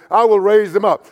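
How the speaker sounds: loud, confident declaration, WILL stressed; emphatic. Retold or imitated. Preacher quoting Jesus on raising the dead, emphatic. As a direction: proclaim it firmly, leaning on "will". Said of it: "Jesus says that emphatically".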